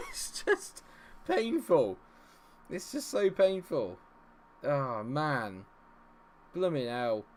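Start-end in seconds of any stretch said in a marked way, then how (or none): 0.1-5.7 high, strained-with-relief complaint; overwrought relief. Real, not acted. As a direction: moan loudly as the tension lets go. Drained by the stressful game.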